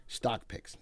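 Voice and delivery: whispered payoff; sudden whisper after hype; hushed. Acted. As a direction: drop to a secret hush. Dropped to a hush.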